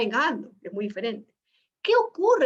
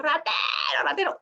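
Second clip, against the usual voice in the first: shouting thief; 4 semitones higher than usual. Retold or imitated. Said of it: "empieza a gritar".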